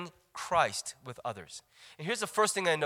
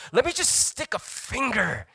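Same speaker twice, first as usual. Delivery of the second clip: mocking; 4 dB louder than usual. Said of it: "And you're like".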